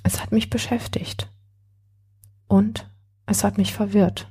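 a woman murmuring her confusion to a friend; murmured. Acted. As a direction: murmur it half to herself. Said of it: "murmelte sie weiter".

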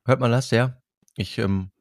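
candy in the mouth; sucking a throat lozenge. Real, not acted. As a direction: talk around a lozenge. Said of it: "du lutscht grad einen Bonbon".

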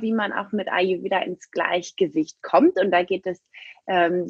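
poor sauna mic recording; muffled, low-quality mic sound; low bitrate. Real, not acted. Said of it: "Ich bin vielleicht manchmal nicht so ganz so gut zu verstehen".

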